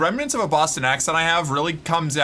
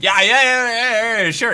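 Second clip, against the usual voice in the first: exasperated acceptance; 8 semitones higher, 4 dB louder than usual. Real, not acted. Mock acceptance of combo interruptions.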